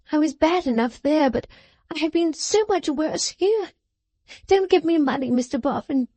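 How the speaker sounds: put-on a young woman begging her father's comfort; tearful pleading. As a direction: beg as if your heart will break. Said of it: "in an incoherent passion of tears".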